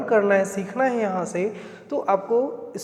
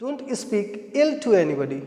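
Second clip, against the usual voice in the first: slow model sentence; much slower than usual. Shown as a demonstration. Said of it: "क्या बोलते हैं?".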